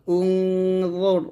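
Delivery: উং র with a thick, heavy র; heavy full R. Shown as a demonstration. Teacher showing pupils the heavy letter, said thick. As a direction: draw out উং, then a full, heavy র. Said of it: "মোটা করে রটা".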